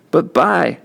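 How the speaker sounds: high, choked start; tearful plea. A narrator's reading. Kenny crying to Byron about the church. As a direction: reach out through tears.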